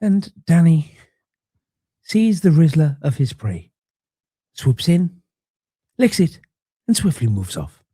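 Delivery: lightly voiced nature documentary narrator; a hint of hushed wildlife narration; Attenborough impression. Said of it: "That was a very good Attenborough impression".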